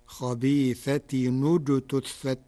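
"خبيثة" with a tanwin in damma, khabithatun ujtuthat; slow, linking "خبيثة" to "اجتثت" with -tunijtuthat; Warsh reading. Shown as a demonstration. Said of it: "بضم التنوين لضم ثالث الفعل".

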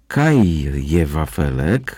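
"Kaj je wafelek" drawn out slowly in Silesian dialect; cat demands the wafer in Silesian, slow and insistent; Silesian exclamation. Acted. Bronka exclaims "Kaj je wafelek" slowly in Silesian. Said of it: "wykrzyknęła".

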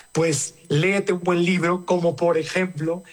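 jokey ad read of the book title and author; mock commercial plug. Host slips a playful ad for the guest's book, mock commercial read. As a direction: sell the book like a radio spot, half joking. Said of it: "¿Qué tal, qué tal el comercial?".

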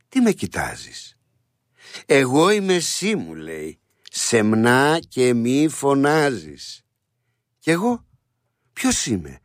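slow, measured poem reading of song lyrics; heartfelt spoken recitation with long pauses; recited lyrics. Shown as a demonstration. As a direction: speak the song as a poem, not sung. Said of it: "θα το πούμε διαβαστά".

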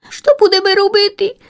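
high, urgent little chick voice; hurried frightened question. Acted. Tired chick asks in panic what to do about the cat. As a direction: ask in a rush, scared. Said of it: "наскоро са позвідувала".

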